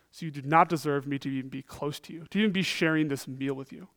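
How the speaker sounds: loud, fast rebuke of a boastful friend; mock scolding. Preacher imagines scolding Peter, mock angry rebuke. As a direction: tell him off, fed up and brisk. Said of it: "I would have said this to Peter".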